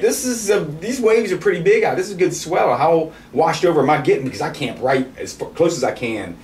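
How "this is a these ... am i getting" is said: worried thinking aloud. Retold or imitated. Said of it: "and I'm like".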